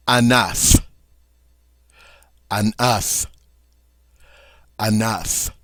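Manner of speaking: "enough" said as French un oeuf, uh-NUF with the F sounded; rounded vowel, F clearly said; French pronunciation. Shown as a demonstration. Teacher drilling "un oeuf" with its final F. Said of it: "we do pronounce the F".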